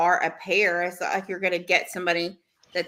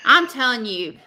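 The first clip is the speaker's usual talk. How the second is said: laughing; 5 semitones higher, 7 dB louder than usual. Real, not acted.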